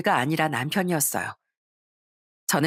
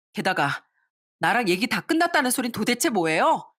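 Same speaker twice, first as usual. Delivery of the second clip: rising angry outburst, higher toward the end; angry yelling; 4 semitones higher than usual. Acted. Daughter yelling at in-laws in her mother's shop, angry. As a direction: scold them all at once, building. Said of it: "소리를 빽 질렀습니다".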